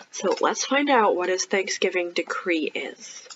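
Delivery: soft unvoiced build-up; whisper. Real, not acted. Reader to children before the decree, whispered. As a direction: lean in and whisper the suspense.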